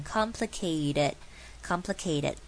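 COMPLICATED with the t as a soft d; T念成D. Shown as a demonstration. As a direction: slowly say "complicated" ending in -ded. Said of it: "念成像D的声音". (complicated的T念成D，放慢)

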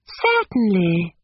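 slow, cordial yes. A narrator's reading. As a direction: agree sociably, stretching the word. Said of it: "was her cordial reply".

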